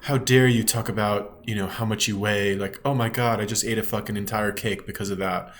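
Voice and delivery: hammed-up impression of a dramatic teen fan; mock triggered teen girl. Mocking a triggered fan's complaint to a YouTuber, hammed-up. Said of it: "who use words like".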